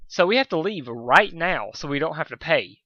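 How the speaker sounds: pushed out through clenched teeth; hissed through gritted teeth. Acted. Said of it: "Spike continued through gritted teeth".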